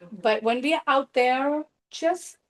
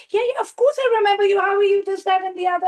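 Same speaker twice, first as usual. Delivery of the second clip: fast, higher and louder, gushing; over-eager yes; 7 semitones higher, 4 dB louder, faster than usual. Retold or imitated. Shouting over wedding noise to a forgotten client, over-eager. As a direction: rush the words like you know them well. Faking recognition at a noisy wedding.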